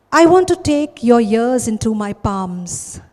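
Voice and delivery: measured, deliberate poem reading; poetry recitation. Acted. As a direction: recite it line by line with pauses. Begins reciting third poem.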